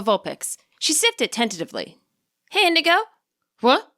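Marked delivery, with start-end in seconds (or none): 2.5-3.0 cheerful stylist. Acted. Stylist greets Indigo. 3.6-3.9 startled. Acted. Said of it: "Indigo startled".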